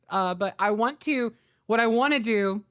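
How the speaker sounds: ordinary talk, nothing marked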